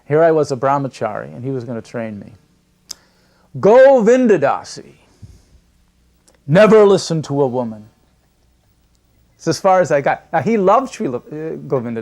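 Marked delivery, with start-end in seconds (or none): 3.6-7.9 teasing. Retold or imitated. Guru teasing his startled young disciple, mock scolding. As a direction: draw it out in a playful warning. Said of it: "kind of in a tease".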